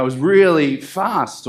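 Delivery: slow emphatic "really fast"; stress on really. Shown as a demonstration. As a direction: stretch out and hit "really". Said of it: "we emphasize it usually by saying".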